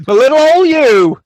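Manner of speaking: loud laughing comment. Real, not acted. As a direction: laugh it out, delighted. Host laughing at email.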